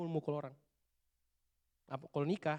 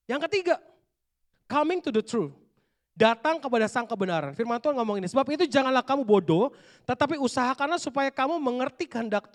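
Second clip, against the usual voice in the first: louder, driving sermon delivery; forceful preaching; 5 semitones higher, 7 dB louder than usual. Acted. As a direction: preach it with conviction to the youth. Preaching to youth at full force. (berkhotbah dengan lantang dan penuh semangat)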